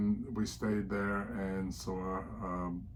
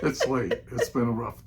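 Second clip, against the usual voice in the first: laughing; 3 semitones higher, 6 dB louder than usual. Real, not acted. Laughing excuse after teasing.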